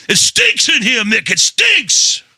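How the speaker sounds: high, strained voice griping that it stinks; put-on whiny voice. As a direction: whine it in a squeaky mock voice. Complaining in a put-on voice.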